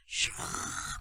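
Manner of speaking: long voiceless whoosh; imitated rush. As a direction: whoosh it out with breath. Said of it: "가신다는 거예요". (숨으로 길게 슉)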